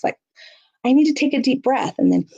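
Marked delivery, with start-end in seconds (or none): 0.8-1.9 modeling calm coping. Shown as a demonstration. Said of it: "So it might sound like this".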